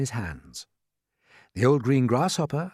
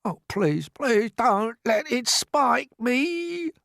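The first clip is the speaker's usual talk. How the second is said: high, slow, pleading wail; begging; 11 semitones higher, much slower than usual. Acted. Earthworm begging James, high frightened pleading. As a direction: plead for your life, drawn out. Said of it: "begged the earthworm".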